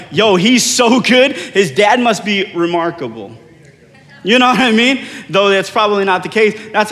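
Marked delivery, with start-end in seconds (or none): 0.1-3.4 loud, high, drawn-out praise; mock admiring hype. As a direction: play an amazed fan, stretching it slowly. Imagined onlooker admiring his son.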